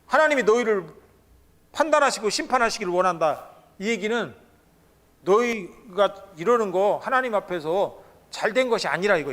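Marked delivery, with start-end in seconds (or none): 0.0-3.5 louder, higher fuming rebuke; heated curse. Retold or imitated. Foremen cursing Moses and Aaron, heated. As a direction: spit out the judgment in anger. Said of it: "열받은 소리".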